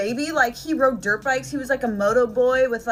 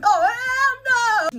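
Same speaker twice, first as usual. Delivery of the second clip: drawn-out, high "Oh, hell no!"; slow, high appalled outcry; shocked refusal; 11 semitones higher, 3 dB louder, much slower than usual. Retold or imitated. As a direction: recoil in disbelief, stretching it slow. Shocked refusal in retold story.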